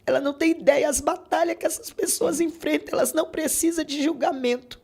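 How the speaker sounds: high, rising preacher's appeal; preaching. Acted. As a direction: preach it to the congregation with fervour. Preaches at listeners mid-testimony. (pregação fervorosa, em tom alto)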